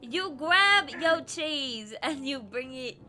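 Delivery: slow, emphatic Jersey-mom ordering; angry Jersey mother. Pretend. Gamer walking teammate through the puzzle, angry Jersey mother. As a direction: lay down the steps like a cross Jersey mother. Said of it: "I sound like someone's angry Jersey mother".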